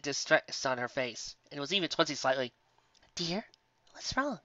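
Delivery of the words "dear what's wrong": high, gentle motherly mare calling out; a kindly shopkeeper voice, lifted high; sweet baker mare. Acted. Baker calling to guests from the oven, sweet and high.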